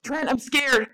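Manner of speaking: evil thing luring with a frightened plea; creature mimicking Nathan. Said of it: "clickery, gravelly voice mixed with some of Nathan's voice".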